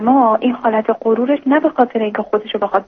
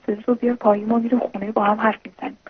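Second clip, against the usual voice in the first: wife quietly hushing her shouting husband, softer voice; hushed calming; 5 dB quieter than usual. Retold or imitated. Wife calming angry husband in street.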